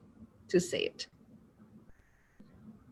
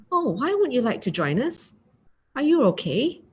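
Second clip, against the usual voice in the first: higher, caring question; concerned tone; 4 semitones higher than usual. Shown as a demonstration. Teacher showing a concerned friend's question, higher and caring. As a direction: ask out of real worry. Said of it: "change your tone".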